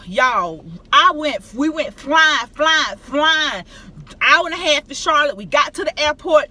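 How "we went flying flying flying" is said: louder, exclaiming rush; excited rush. Real, not acted. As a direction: call it out like a whirlwind. Rushing to the airport.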